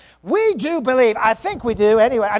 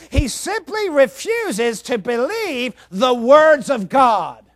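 preaching shout; 2 semitones higher, 4 dB louder, slower than usual. Real, not acted.

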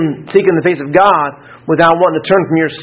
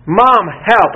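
raised, mildly acted cry for help; panic tone; 4 semitones higher than usual. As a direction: imitate a child's panicked call. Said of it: "it was a panic tone".

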